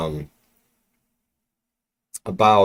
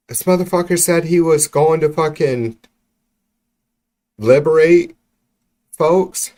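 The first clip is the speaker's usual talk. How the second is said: outraged disbelief; 7 semitones higher, 4 dB louder than usual. Real, not acted. Outraged rant about broken promise.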